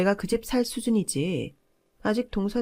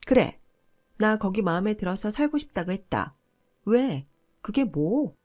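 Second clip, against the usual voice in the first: loud, high-pitched shriek of defiance; screaming sister-in-law; 4 semitones higher, 3 dB louder than usual. Retold or imitated. Sister-in-law screams back at her over the phone, shrieking. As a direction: yell it back, daring her to object. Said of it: "라며 악을 쓰길래".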